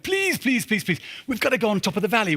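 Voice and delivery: high, urgent begging; pleading. Retold or imitated. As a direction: plead with them like your life depends on it. Begging them to climb the mountain.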